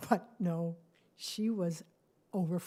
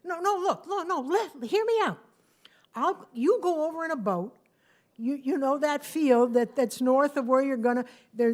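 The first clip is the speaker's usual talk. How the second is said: louder, insistent plea to hear him out; urgent pleading; 3 semitones higher, 7 dB louder than usual. Acted. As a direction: beg her to listen, talking over her objections. Gustav pleads to fly instead.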